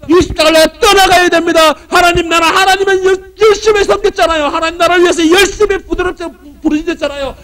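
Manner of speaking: high, pleading mock prayer to God. Preacher mimics a self-pitying prayer, high and pleading. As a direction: whine at God like a spoiled believer.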